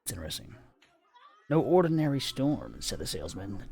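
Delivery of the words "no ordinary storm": No ordinary storm said louder and more weighty; louder, weightier reread. Shown as a demonstration. Reader redoes the salesman's warning with more weight. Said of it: "rereads the line".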